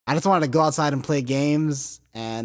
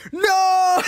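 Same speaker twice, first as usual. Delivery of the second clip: high, loud cry of dismay; shocked no; 6 dB louder than usual. Retold or imitated. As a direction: throw out a stunned no. Shocked reply to girls' confession.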